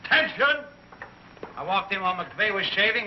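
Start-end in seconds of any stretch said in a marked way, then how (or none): 0.1-0.6 high, loud barracks call; mimicked yell. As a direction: imitate a yelled call to attention. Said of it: "some nitwit yells".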